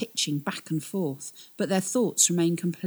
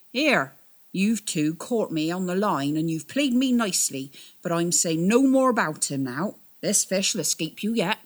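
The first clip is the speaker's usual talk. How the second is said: put-on louder, firm old sailor; firmly; 3 semitones higher, 5 dB louder than usual. Captain refuses the twins any more answers, firm and louder. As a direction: plant your feet and refuse, firmly. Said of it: "said Captain Mace firmly".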